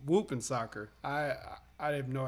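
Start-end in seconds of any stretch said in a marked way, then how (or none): 0.1-0.9 Milwaukee accent. Shown as a demonstration. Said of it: "Say it in your Milwaukee accent".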